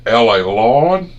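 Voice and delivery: high, loud, slow drawn-out grandma voice; nanny's Southern saying. Retold or imitated. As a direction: stretch it out like nanny. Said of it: "she'd say".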